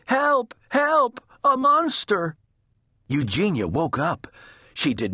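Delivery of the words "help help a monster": high, alarmed cry; frightened shout. A narrator's reading. Baby seeing a snout at her window, shouting. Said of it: "shouted Baby".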